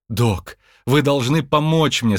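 mildly imploring request; pleading. Acted. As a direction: beg the doctor for help. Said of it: "умоляющим голосом". (умоляющим голосом)

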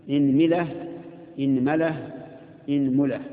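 إنملة three times, hamza with i, the mim varied; inmila, inmala, inmula in a row; pronunciation demo. Shown as a demonstration. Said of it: "اكسر الهمزة مع تثليث الميم". (إنملة بكسر الهمزة وتثليث الميم)

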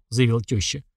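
plain reading voice

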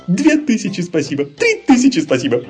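high, loud gleeful gushing; sudden joyful thanks. Acted. Laban thanking the bunnies for the gingerbread, high gleeful gush. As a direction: burst out with delight, voice miraculously back. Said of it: "вдруг прорезался голос".

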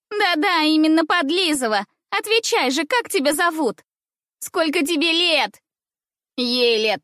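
put-on high jeering girl voices; mock her like a pack of girls; taunting schoolgirls. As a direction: girls mocking the newcomer.

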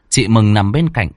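usual speaking voice

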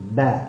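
با with a smiling, open mouth; open fatha. Shown as a demonstration. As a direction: lips spread and unrounded on با. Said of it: "تظهر الابتسامة اللي هي على أعلى الفم". (با بفتحة وابتسامة على الشفتين)

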